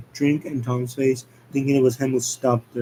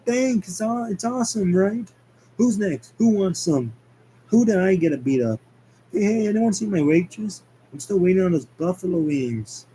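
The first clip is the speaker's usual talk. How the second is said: sarcastic; 5 semitones higher than usual. Acted. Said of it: "Tom sarcastically goes".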